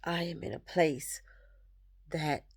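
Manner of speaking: quiet, halting words through real tears, long pauses between; fighting back tears as relief sinks in; tearful, choking up. Real, not acted. Speaking to viewers about her ex, softly tearful and broken up. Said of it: "Pardon me if I get emotional".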